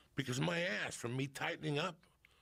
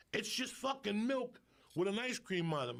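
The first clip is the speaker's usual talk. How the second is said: higher-pitched imitation of an indignant kid; retold protest; 7 semitones higher than usual. Boy complaining to mom about his milk, mock indignant. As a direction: object like a short-changed child.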